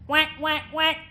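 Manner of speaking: loud, high, piercing quacks; twangy duck quack. Shown as a demonstration. Coach demonstrating twang, piercing duck quack. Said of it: "And with twang".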